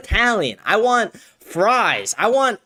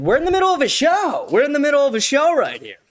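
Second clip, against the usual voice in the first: much higher, pleading at the dog; exasperated plea; 9 semitones higher than usual. Real, not acted. Streamer pleading with his dog mid-show, high and exasperated. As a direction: squeak it out, begging the dog to stop.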